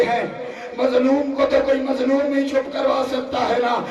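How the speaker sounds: impassioned masaib recitation. Acted. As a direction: preach the tragedy at full voice. Rising majlis recitation, shouting.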